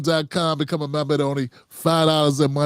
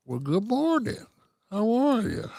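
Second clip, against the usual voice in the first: higher, softer friendly greeting; TikTok guy's voice; 7 semitones higher, 6 dB quieter than usual. Retold or imitated. Vlogger imitating the TikTok guy greeting shoppers, soft and friendly. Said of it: "You see this guy?".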